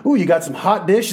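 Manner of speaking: a rising, light "Ooh, you got some hot dish?"; Minnesota hot dish. Retold or imitated. Pastor imitating friend offering hot dish, lightly Minnesotan. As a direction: lift it like a friendly Minnesotan asking. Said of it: "He would call what we call a casserole".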